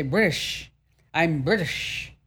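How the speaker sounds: British accent, T dropped: "British" as "Brih-ish"; light British accent, swallow the T in "British". Shown as a demonstration. Host mimicking how British people say "British", in a light British accent. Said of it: "They say, They don't pronounce the T".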